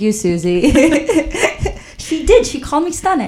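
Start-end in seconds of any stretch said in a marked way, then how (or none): 0.7-3.3 high laughing through the words. Real, not acted. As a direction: laugh it out, much higher. Laughing at the stunning story.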